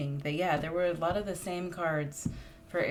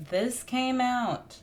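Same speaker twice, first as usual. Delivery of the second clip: much higher, slow, stretched out; surprised; 8 semitones higher, 4 dB louder, much slower than usual. Real, not acted. Reader spots a card that came out before, surprised. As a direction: caught off guard by the card.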